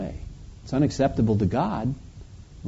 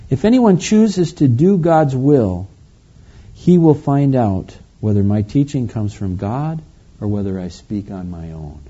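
scripture reading; 5 dB louder than usual. Acted. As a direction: read the whole verse through in flowing phrases. Reads the verse through.

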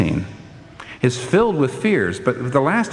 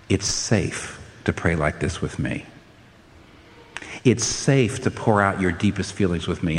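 gentle reassurance; 3 semitones lower, 4 dB quieter than usual. Acted. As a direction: speak as a comforting God. God's reassurance voiced gently.

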